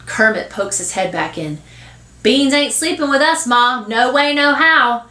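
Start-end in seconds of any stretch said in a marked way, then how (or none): 2.2-5.0 high-pitched flat-out refusal, slowing at the end; defiant boy. Acted. Boy telling Ma he won't share, defiant. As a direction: refuse like a stubborn kid.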